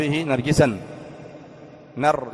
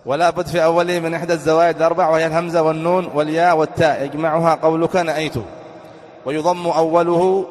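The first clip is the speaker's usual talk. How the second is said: reciting text; 3 dB louder than usual. Acted. Teacher reads the grammar text to students, recited. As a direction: read it out like a classical text.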